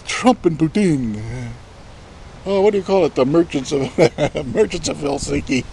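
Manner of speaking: lightly put-on British playwright, breaking into a laugh; mock British accent, groping for a title. Imagined Shakespeare hunting for a play title, in a light mock British accent. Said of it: "Wrong accent".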